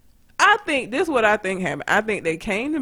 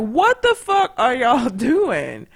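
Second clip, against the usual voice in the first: mildly pissed off; 4 semitones higher, 3 dB louder, slower than usual. Retold or imitated. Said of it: "I come out pissed off".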